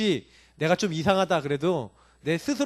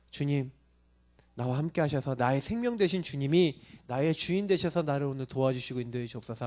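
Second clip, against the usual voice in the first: demonstrated prayer; 3 semitones lower than usual. Shown as a demonstration. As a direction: show them how to pray, humbly confessing. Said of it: "어떻게 하시면 되냐?".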